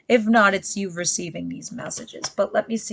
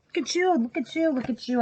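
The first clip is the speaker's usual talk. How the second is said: high coo sinking back toward normal; fading doting pet voice; pet talk; 4 semitones higher than usual. Real, not acted. Cooing at pet, settling.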